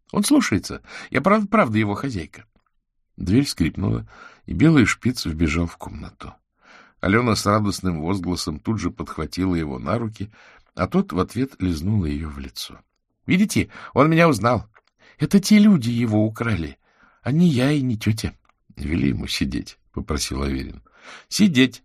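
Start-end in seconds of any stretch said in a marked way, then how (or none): 0.1-2.4 put-on high, earnest child's voice; a girl pleading to be believed; little girl insisting. A narrator's reading. Girl insists to the wizard she owns the dog, earnest and high. 13.0-18.3 put-on high, louder, eager child; a girl proudly showing her dog; excited girl. A narrator's reading. Girl shows the wizard her dog knows her, eager and high. 21.0-21.8 command. A narrator's reading. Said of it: "скомандовала Алёна".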